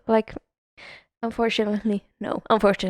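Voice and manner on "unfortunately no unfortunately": soft, measured polite refusal; very professional. Retold or imitated. Receptionist turning down a guest's date, professionally apologetic. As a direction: decline with customer-service courtesy. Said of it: "professional, yeah".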